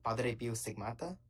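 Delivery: Padre Pio Stigmata with a tapped Italian r, slow; put-on Italian accent. Real, not acted. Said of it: "you're not talking like that when you say any other word".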